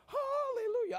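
hallelujah sung out high, far above his voice; ecstatic hallelujah. Real, not acted. Preacher recalling playoff joy, soaring high hallelujah. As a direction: lift it like a joyous shout.

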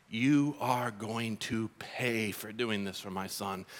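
a father vowing revenge; slow threat. Retold or imitated. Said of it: "Heavenly Father going".

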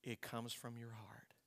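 hushed whisper to the congregation; soft whispered confession of the heart. Real, not acted. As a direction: breathe it like a secret. Intimate close of sermon point.

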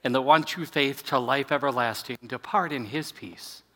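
measured, solemn benediction; liturgical blessing. Acted. Pastor blessing the congregation after communion, solemn and measured.

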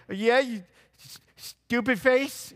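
put-on high, loud toothless old woman; old lady yelling. Old professor yells back at the street preacher, high shout. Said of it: "you're like".

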